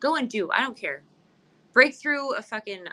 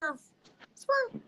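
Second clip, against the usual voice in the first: sassy swerve; 11 semitones higher, 5 dB quieter than usual. Retold or imitated. Sassy dismissal.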